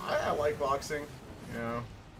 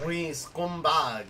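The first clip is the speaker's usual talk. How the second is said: mock French accent; 5 semitones higher, much slower than usual. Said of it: "I can't do a French accent".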